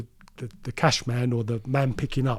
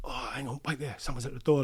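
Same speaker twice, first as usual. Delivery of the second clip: hushed aside; 7 dB quieter than usual. Retold or imitated. Man on the phone hears someone at the door, hushed aside. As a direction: drop your voice to pause a phone call.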